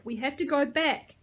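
high, loud, urgent plea; yelled. A narrator's reading. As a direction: yell it to make her listen. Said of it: "I yelled".

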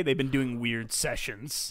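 slow, ominous repeat; sinister. Retold or imitated. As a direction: make it sound sinister. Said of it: "That also sounds more sinister than".

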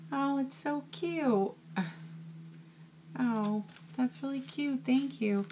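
high, moved voice on the edge of tears; choked up with delight at a surprise gift; touched, near tears. Real, not acted. Opening a handmade mini journal from a friend, teary and high. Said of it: "You're gonna make me cry".

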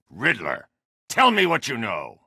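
threatening shout. Acted. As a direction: voice jumps high as he demands answers. Interrogating a thug for Riddler.

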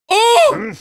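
high, loud cry of shock; shocked yelp. Real, not acted. Viewer seeing the knife hit the critic, shocked yelp.

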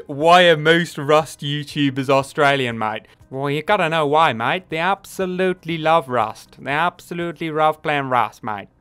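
a hammed-up, badly faked Australian accent. YouTuber mock-answering a fan in a bad Australian accent. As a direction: lay on a terrible Aussie accent with a mate at the end. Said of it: "That accent was terrible".

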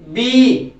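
"बीई" with a long, stressed ee; stretched E. Shown as a demonstration. Teacher shows stress on E, stretched "बीई". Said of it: "खींचा जा रहा है इसको".

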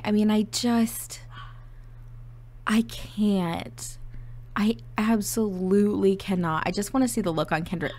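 breathless, overwhelmed whisper; excited whisper. Real, not acted. Player whispering over the emotional reunion, overcome. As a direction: whisper it like you can barely hold it in.

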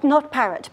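"parrot" like the bird, T sounded; correcting mispronunciation. Acted. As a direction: quote the wrong "parrot" with its T. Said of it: "but it's pronounced Parrot".

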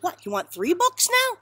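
high, loud disbelieving question; incredulous librarian. Acted. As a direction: play the librarian taken aback. Librarian voiced, incredulous in joke.

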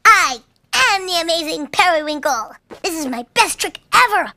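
excited. Acted. Trick succeeds, cheering.

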